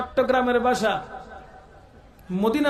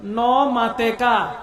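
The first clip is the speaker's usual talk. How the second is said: Chittagonian word; much slower than usual. Shown as a demonstration. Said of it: "চট্টগ্রামের ভাষায় কি বলে".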